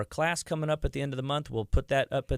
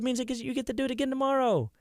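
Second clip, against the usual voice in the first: higher, fast, singsong brush-off; imitating his own careless answer to wife; flippant reply; 11 semitones higher, faster than usual. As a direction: toss it off like a tease. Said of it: "I said".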